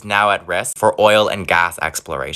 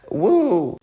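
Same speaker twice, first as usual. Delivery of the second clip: cheer; 8 semitones higher than usual. Real, not acted. Celebrating last day of 2020.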